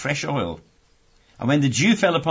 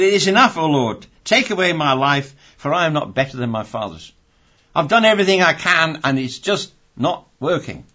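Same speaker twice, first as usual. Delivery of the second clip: despairing Elijah; 3 semitones higher, 4 dB louder than usual. Acted. Elijah begging to die.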